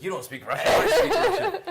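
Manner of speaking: loud, high mock protest; mock shout. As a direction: shout it like a playful argument. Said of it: "I'm like".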